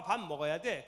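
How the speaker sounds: ordinary delivery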